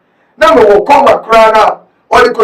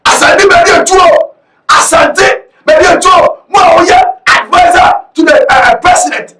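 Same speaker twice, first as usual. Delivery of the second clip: emphatic calling out; 4 semitones higher than usual. Real, not acted. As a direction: call the official out, stretching each word. Calling out a presidential advisor by name.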